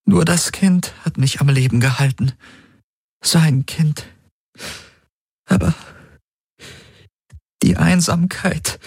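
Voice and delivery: high woman's voice; high and sorrowful; Ylana's voice. A narrator's reading. Ylana tells Garland of her loneliness, sorrowful.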